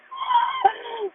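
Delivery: very high acted gasp of shock; stunned squeal. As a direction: let out a high, overwhelmed little cry. Acts out her stunned reaction.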